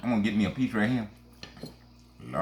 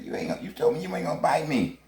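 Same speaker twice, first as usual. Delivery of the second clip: Frog's voice; 6 semitones higher than usual. Retold or imitated. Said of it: "I think Frog said".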